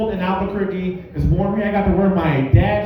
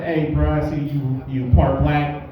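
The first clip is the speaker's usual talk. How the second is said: much lower, deadpan threatening bro voice; tough cop cousin; 8 semitones lower than usual. Retold or imitated. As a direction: growl it low like a menacing cop. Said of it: "he's like".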